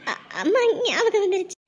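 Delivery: broken, choked start; tearful bride missing her mother; crying. Acted. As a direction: cry through the words missing mom. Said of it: "இப்படி அழுதுட்டு இருக்க நீ".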